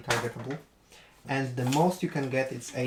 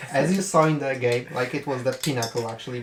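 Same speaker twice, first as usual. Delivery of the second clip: loud, amused retelling on the edge of laughter; laughing; 6 dB louder than usual. Real, not acted. Recalling a friend's terrible game, amused and laughing. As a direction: still tickled, pushing the words out louder. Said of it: "I'm sorry I'm laughing".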